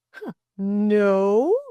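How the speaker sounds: loud, drawn-up mock question; teasing. A narrator's reading. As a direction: tease with feigned surprise. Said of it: "teased Delcote".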